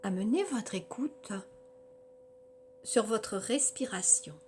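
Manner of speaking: measured yoga nidra guidance with long pauses between phrases; guided relaxation. Acted. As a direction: guide them through body and senses, phrase by phrase.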